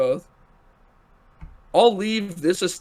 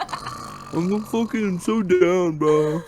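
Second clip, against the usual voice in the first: slow, drawn-out stoner voice; lazy mocking of a laid-back bro; mellow dreamy hippie; 2 semitones higher, much slower than usual. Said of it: "were you trying to make fun of him".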